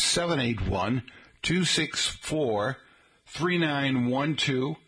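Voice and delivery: slow, digit-by-digit phone number; slow number read; slow dictation. Shown as a demonstration. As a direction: spell out each digit slowly. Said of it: "dictating a phone number".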